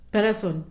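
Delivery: Patterson said as Pa-ta-son; local pronunciation. Shown as a demonstration. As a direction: open "a" sounds in Patterson, no hard r. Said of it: "That's how they say it here".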